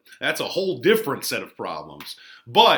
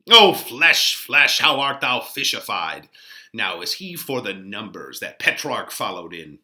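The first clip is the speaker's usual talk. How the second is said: Mercutio teasing; 5 dB louder than usual. Acted. Mercutio greets Romeo with loud, mocking glee. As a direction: hail him across the street with glee.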